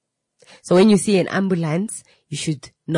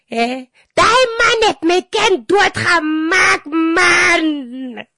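high, loud mock sobbing cry, much higher and louder; hysterical crying; 12 semitones higher, 6 dB louder, slower than usual. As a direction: wail it like a grieving mother. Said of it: "starts going crazy".

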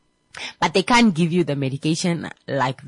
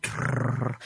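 fart noise; 7 semitones lower, 7 dB quieter than usual. Retold or imitated. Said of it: "you know, gas".

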